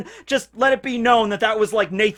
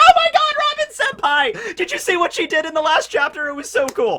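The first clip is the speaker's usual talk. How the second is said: very high, squeaky, gushing excitement; 9 semitones higher than usual. Show listeners how your voice gets when you are really excited, in a squeaky, really excited voice. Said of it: "Some might even call it squeaky at times, especially when I get really excited".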